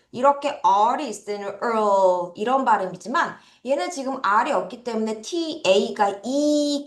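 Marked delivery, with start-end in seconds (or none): 6.2-6.8 이 drawn out long; long vowel. Shown as a demonstration. Teacher shows students the vowel in teach, 이 held long. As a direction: hold 이 as one long ee sound. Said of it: "길게 발음 납니다".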